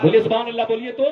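calls out loudly for the crowd to answer. Real, not acted. Preacher loudly urges listeners to praise God. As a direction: rouse the audience to reply.

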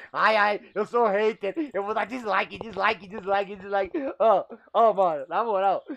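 imitando um hater bobo e lento; voz de hater zombada. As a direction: zombe do hater com voz afetada. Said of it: "Você já vai lá, ó". (imitação debochada de hater)

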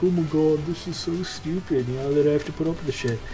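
put-on high, loud, fed-up teen voice; annoyed young gamer girl; exasperated teen girl. Quoting a harassed teen girl gamer.

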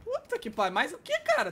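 incredulous outburst. Real, not acted. Outraged disbelief mid-game.

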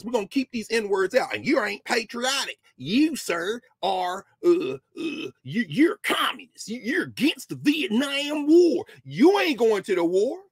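a lightly voiced bigoted legislator, sneering and halting; mock segregationist legislator. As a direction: play the racist lawmaker accusing him, slowing into a hushed, breathy "communist". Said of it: "These are the white nationalists".

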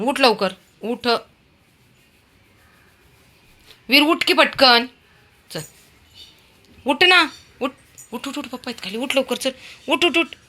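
high, insistent get up; repeated calls. Real, not acted. Coaxing Veer off the window, high insistent calls. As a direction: keep calling him up.

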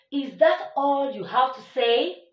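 a questioning lift on the sentence; rising question tone. Shown as a demonstration. Teacher showing pupils a question, rising tone. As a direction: let the question climb up. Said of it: "your tone will rise".

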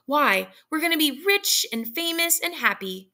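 high, bright, grinning tease; smiling. Acted. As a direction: tease them with a big grin. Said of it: "smiling, he said".

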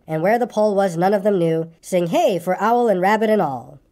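lilting, rhythmic song-as-poem reading; verse recital. Acted. Pooh giving Piglet his verse, lilting recital. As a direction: recite it in bouncing children's-rhyme cadence.

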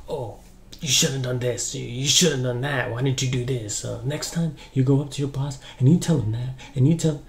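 mock lecturing, pushy and rising; aggressive blaming advice. Husband lecturing wife about her boss, mock aggressive. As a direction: imitate a husband laying blame. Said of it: "very aggressive advice".

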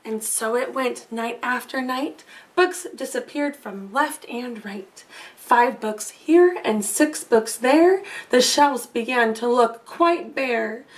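lilting storybook read-aloud; reading to children. A narrator's reading. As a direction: read it like a bedtime story to little ones.

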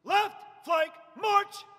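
slow, separated words, crisp march; drawn out parade commands. Shown as a demonstration. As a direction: call each word out slowly. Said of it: "not separating each word".

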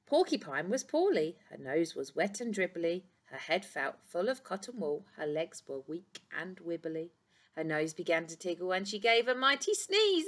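lively storybook reading; reading to children. A narrator's reading. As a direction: read it like to a class. Reads picture book aloud.

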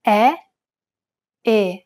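first E open and wide, second E closed and narrow; open then closed E. Shown as a demonstration. Teacher contrasting the open E with the closed E. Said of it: "Compare the open E followed by a closed E".

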